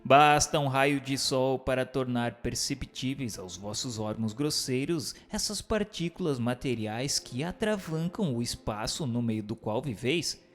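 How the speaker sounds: ordinary talk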